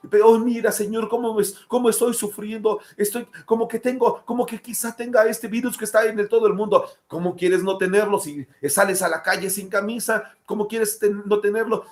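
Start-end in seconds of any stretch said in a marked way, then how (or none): 0.1-6.9 hammed-up self-pitying complaint, pitched higher; mocking a moaning believer, a touch of fake sobbing; mock whining. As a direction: whine to God like a martyr over nothing. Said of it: "siempre lloraba".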